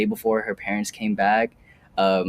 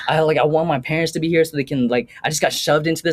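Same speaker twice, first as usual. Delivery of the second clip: upset crying quote; 6 semitones higher than usual. Retold or imitated. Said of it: "she called me crying".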